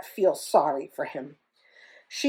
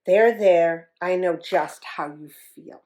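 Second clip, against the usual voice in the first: cooing; 4 semitones lower than usual. Acted. Hippo cooing to the crying elephant. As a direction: comfort him gently.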